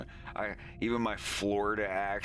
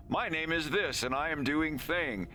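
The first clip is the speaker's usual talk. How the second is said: higher, naive mocking voice; mocking dopey voice; 8 semitones higher than usual. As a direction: parody a clueless beginner. Mocking their bland posts.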